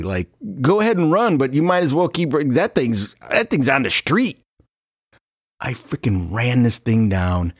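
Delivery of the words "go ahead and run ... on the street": mocking, higher dismissive tone; sarcastic teammate scoffing. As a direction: sneer at the effort.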